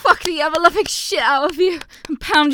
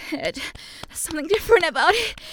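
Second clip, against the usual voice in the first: spoken aloud with a rising lilt; voiced and rising; 4 semitones higher, faster than usual. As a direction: say it out, lifting at the end.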